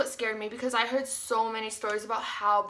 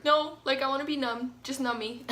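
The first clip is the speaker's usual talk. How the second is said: mock pleading refusal, punched at the start; insistent protest, retold; 3 semitones higher than usual. Patient objecting to a partial epidural, playful insistence.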